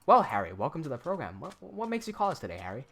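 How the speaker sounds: scripted sales pitch, name repeated; hint of a canned salesman; robotic salesman. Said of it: "I'll pretend to be the salesman".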